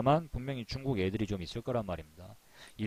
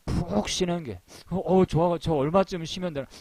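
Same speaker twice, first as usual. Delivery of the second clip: naive employee; 6 semitones higher, 4 dB louder than usual. Retold or imitated.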